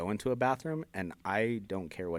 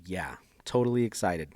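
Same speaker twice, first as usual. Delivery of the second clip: sarcastic. Real, not acted. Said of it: "that sounded so sarcastic".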